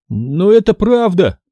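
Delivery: slow, high insistent cry; shouting. A narrator's reading. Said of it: "закричал я".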